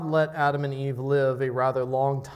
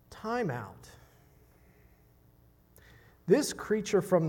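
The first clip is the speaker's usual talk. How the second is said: a touch of a stern preacher rising in pitch; imitated preacher's earnest rebuke, voice climbing; imitating R C Sproul; 4 semitones higher than usual. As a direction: start building the rebuke, earnest and firm. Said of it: "his tone of voice as well".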